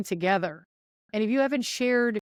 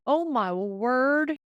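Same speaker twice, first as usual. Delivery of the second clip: exasperated; 3 semitones higher, much slower than usual. Real, not acted. Exasperated recollection, slowed.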